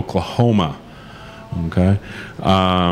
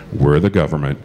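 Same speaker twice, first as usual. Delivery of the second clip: ominous government voice; 4 semitones lower than usual. Retold or imitated. Caller's ominous reply, retold.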